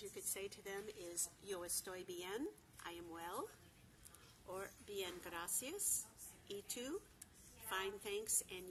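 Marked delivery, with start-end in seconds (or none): 1.4-2.5 1 slow demo. Shown as a demonstration. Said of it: "pronounced exactly as it's spelled". 4.9-7.0 1 slow demo. Shown as a demonstration. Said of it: "pronounced exactly as it's spelled".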